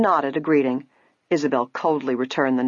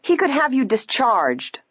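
higher, indignant and imperious; haughty threat; 9 semitones higher than usual. A narrator's reading. Ada threatens a store man with her father's influence, haughty threat. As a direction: threaten with a rich customer's entitlement.

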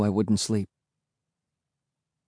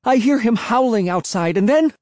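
very high, frantic shrill voice; child's high-pitched panicked outburst; shrill cry; 12 semitones higher, 3 dB louder than usual. Acted. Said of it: "I cried in a shrill voice".

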